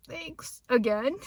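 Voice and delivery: awkward thanks. Retold or imitated. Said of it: "all awkwardly and shit".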